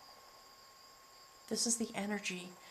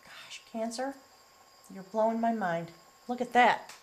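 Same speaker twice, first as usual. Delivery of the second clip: louder, thrilled and wondering; amazed; 5 dB louder than usual. Real, not acted. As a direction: marvel aloud at the card. Amazed by the reading.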